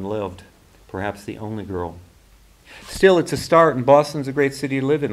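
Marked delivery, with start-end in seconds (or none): 2.9-5.1 brighter, higher, louder encouragement; upbeat reassuring offer; encouraging. Acted. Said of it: "Elizabeth offered".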